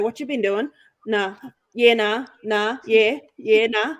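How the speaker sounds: rural central Queensland Aussie accent; Queensland hillbilly accent. Shown as a demonstration. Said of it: "the hillbilly is anything from".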